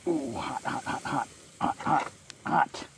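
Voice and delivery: gasping around a hot bite; hot food in the mouth, breathing it out; mouth full of hot food. Real, not acted. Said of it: "This is very hot".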